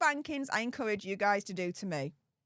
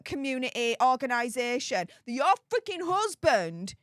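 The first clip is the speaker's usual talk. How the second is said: heated rant; 3 semitones higher than usual. Real, not acted. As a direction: hammer home the hypocrisy. Ranting about Meghan's hypocrisy.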